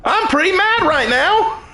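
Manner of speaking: lightly voiced frustration, confessing it to God; retold angry prayer. Pastor retelling how he told God he was mad. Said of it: "I have said".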